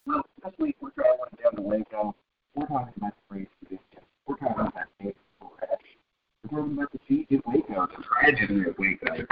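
muffled garbled phone line; like talking from underwater. Real, not acted. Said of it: "You sound like you're underwater".

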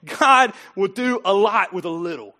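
impassioned sermon delivery; emphatic preaching. Real, not acted. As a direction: drive each promise home to the congregation. Preaches with force.

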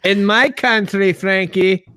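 put-on Russian accent, word by word; clumsy mock Russian accent; attempted Russian accent. Co-host practises the actress's name, trying a Russian accent. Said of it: "I've never done a Russian accent".

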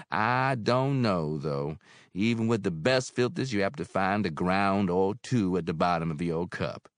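motherly landlady; Mary, older woman. Acted. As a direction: speak as kindly Mary. Mary's voice.

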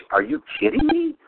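high, amazed "Are you kidding me?"; amazed disbelief. Retold or imitated. Son to father over the hamburgers, amazed and high. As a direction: pitch it way up in disbelief. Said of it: "And I'm like".

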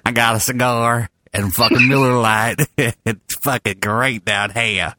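hammed-up slow Southern drawl accent; Forrest Gump. Host riffs a drinking voice, mock Southern accent. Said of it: "Forrest Gump".

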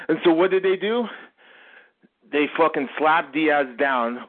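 breathless, panting delivery; talking while winded; out of breath. Real, not acted. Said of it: "Why are you breathing so hard?".

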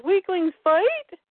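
high, slow sneering creature; monster voice. Acted. A Parademon mocking the father, slow and high. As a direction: drag it out, mocking. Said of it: "the other one says".

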